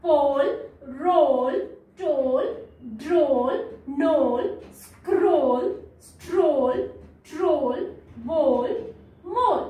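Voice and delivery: slow list from "पोल" to "मोल", each O drawn out; stretched O in every word, "पोल" through "मोल"; long O. Shown as a demonstration. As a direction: read "पोल", "रोल", "टोल" slowly with long O. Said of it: "read कर लेते हैं".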